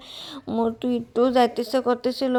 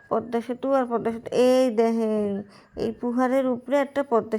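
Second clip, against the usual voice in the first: chatty vlog talk in a Barishal dialect; বরিশালের আঞ্চলিক ভাষায়. Pretend. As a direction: play a Barishal villager showing off the trip. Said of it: "আজকে একটু আমি বরিশালের ভাষায় কথা বলবো".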